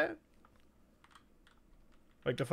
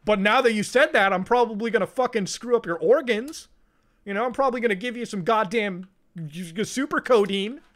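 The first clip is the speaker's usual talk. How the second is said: dad's mock threat; 5 semitones higher, 5 dB louder than usual. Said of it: "my dad's like".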